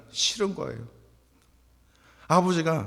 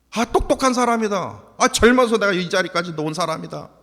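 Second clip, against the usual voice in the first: louder, puffed-up self-praise; hammed-up showing off; mock boasting; 5 semitones higher, 6 dB louder than usual. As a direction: brag like a proud professor, tongue in cheek. Mock boasting about himself.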